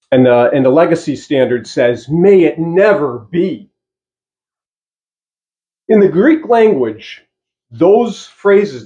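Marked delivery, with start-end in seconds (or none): 2.1-3.7 slow, weighty May it never be; emphatic. Shown as a demonstration. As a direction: stress May it never be slowly. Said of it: "It's emphatic".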